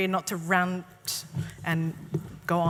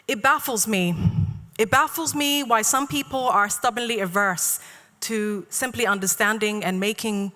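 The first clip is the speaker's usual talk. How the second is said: measured spoken-word delivery, phrase by phrase; deliberate poetry reading with falling line ends; poem recitation. Real, not acted. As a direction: recite it to a room, pausing between lines. Reads own poem aloud.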